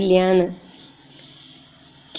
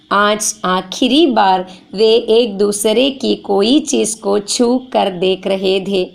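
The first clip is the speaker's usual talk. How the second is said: slow story reading; slower than usual. Shown as a demonstration. Teacher reading the Hindi story to students, slow. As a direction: read slowly, like a story.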